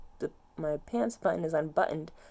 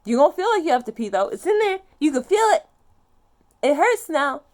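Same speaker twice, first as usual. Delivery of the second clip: fast agitated complaint; 7 semitones higher, 10 dB louder than usual. Real, not acted. Fast loud complaint about pain.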